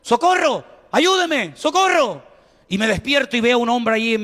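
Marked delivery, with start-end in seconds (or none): 0.0-2.3 high, calling cries for help; retold cries for help. Drowning man at the beach calls out, high mock cries. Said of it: "de repente oigo".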